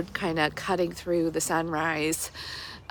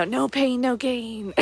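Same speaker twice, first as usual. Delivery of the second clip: mock jock; 5 semitones higher than usual. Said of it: "jock mentality".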